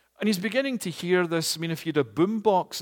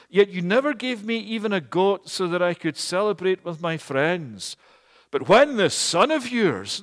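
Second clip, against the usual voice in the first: resentful complaint; 4 semitones higher, 5 dB louder than usual. Acted. Elder brother complaint.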